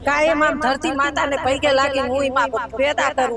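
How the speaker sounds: grieving the washed-away field through tears; crying. Real, not acted. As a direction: still tearful, voice breaking. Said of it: "તમે આટલું રડો છો કેમ?".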